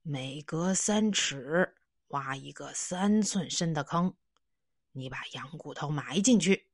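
put-on instructing old man. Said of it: "指挥道".

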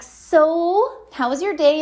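a hint of a chatty gym buddy; mock chatty self. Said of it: "I'm like".

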